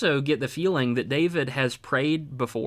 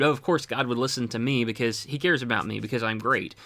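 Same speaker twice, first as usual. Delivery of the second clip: smug privileged; 2 semitones lower than usual. Retold or imitated. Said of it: "a privileged kind of attitude".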